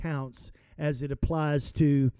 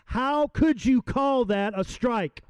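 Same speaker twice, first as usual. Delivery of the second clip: a touch higher, slow indignant protest; lightly voiced big ballplayer complaining; mild mock outrage at the umpire; Babe Ruth protesting; 5 semitones higher, slower than usual. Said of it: "he says".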